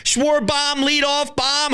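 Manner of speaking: usual speaking voice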